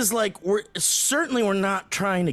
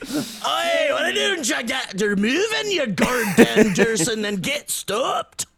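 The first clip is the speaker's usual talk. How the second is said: higher, louder Canadian yell with a laugh; shouted Canadian accent; 6 semitones higher, 4 dB louder than usual. Retold or imitated. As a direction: yell at someone to get moving, Canadian style. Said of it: "There, that's good".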